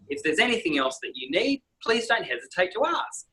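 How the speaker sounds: imitating a bright air hostess announcement; chirpy cabin announcement with rising ends; lightly voiced flight attendant on the PA. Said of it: "That's how the air hostess goes".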